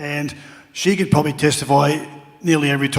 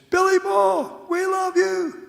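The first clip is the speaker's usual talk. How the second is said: very high, drawn-out heckler's yell; big booming voice; slower than usual. Retold or imitated. Fan in the crowd hailing a player, big booming yell. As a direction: holler it like a fan across a cavernous stadium. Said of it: "this big booming voice".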